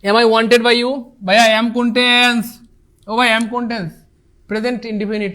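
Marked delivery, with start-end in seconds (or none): 0.0-1.0 very slow, the words drawn out; a teacher slowly reading the exam question; slow dictation. Shown as a demonstration. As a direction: read the question out word by word. Teacher reads question sentence.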